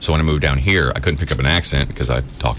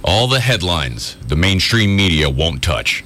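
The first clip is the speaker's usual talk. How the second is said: slow convincing promo read; announcer promo. Shown as a demonstration. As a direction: make them believe it's hidden news. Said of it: "So give us that".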